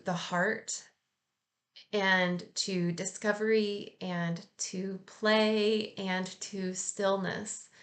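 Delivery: slow, unhurried meditation guidance; guided meditation. Acted. To her listeners at the close, slow meditative guidance. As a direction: draw each phrase out slowly, inviting calm.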